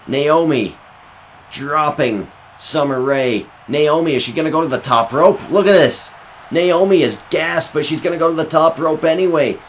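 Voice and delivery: high, loud, rushing call; excited commentator. Acted. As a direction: build the hype toward the finish. Climax of the match.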